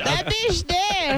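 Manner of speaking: slow, drawn-out mock verdict; mock deadpan. Friend horrified by the threesome idea, slow mock verdict. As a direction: drag it out like a dramatic verdict.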